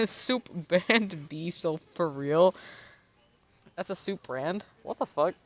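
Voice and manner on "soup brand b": laughing. Real, not acted. Laughing while reading name.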